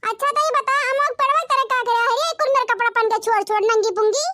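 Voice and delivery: lightly voiced old village mother-in-law; mocking mother-in-law. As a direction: scold her for the clothes.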